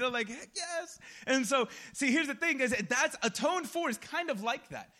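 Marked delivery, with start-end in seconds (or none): 0.3-1.0 excited. Retold or imitated. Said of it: "I got excited".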